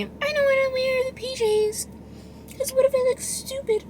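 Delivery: high whiny mocking voice; squeaky put-on whine, very high; whiny mock self. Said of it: "And then there's me".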